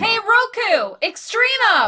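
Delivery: loud taunting calls; jeering. Acted. Crew jeers at the monster to lure it in, loud and mocking. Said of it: "jump and wave their arms, jeering".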